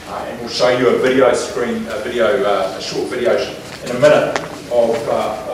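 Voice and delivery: distant, off-mic speech; talking away from the microphone; turned away from mic. Real, not acted. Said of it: "We can't hear you".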